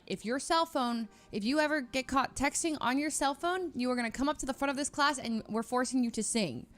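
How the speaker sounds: imitating scary professor. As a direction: play the terrifying chemistry professor, lightly. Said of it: "he's like".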